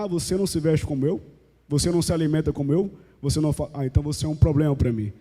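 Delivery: mocking a judgmental believer, fast and soft; mock disdain. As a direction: brush them off like an intolerant zealot. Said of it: "quando ela vê alguém que não faz como ela".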